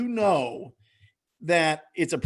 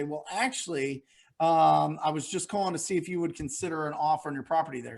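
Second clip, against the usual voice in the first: hesitant, quicker ask; 3 semitones lower than usual. Shown as a demonstration. Coach showing how to ask a seller about an offer, hesitant and quick. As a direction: slip the offer in lightly and fast. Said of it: "sound a little bit hesitant".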